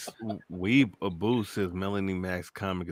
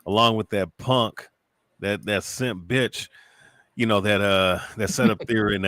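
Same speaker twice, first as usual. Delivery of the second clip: loud, heated call-out rising in pitch; angry rant; 2 semitones higher, 3 dB louder than usual. Real, not acted. Calling out the streamer on video, heated and loud. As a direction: tear into her, fired up.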